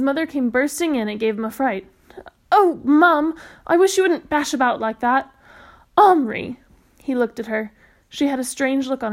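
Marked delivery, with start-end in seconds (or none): 2.5-5.3 startled, high and loud; startled cry. Acted. Startled boy complains to mother. 6.0-6.6 loud urgent call of a name. Acted. Mother bursts in calling.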